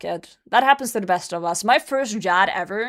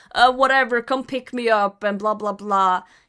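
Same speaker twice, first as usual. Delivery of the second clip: put-on tipsy, drunk-sounding, indifferent voice. Retelling what the speaker's ex said on the phone from the pub, imitating a drunk man. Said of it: "And he's drunk at the pub with the lads".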